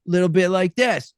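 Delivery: a hint of the stoner character; stoner commercial voice. Shown as a demonstration. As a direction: pitch the radio ad as a stoner. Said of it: "with that same sound".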